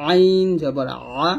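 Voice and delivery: আইন জবর আ drawn out slowly, pressed from mid-throat; slow pressed throat sound. Shown as a demonstration. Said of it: "চাপ দিয়ে বলবো". (ধীরে, গলায় চাপ দিয়ে আইন জবর আ)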